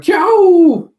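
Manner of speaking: hammed-up loud sound effect. Reading a sound effect aloud.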